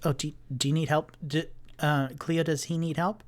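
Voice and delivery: apologetic and eager, rushing the words; nervous Tipsy. Acted. Tipsy worried about Algernon.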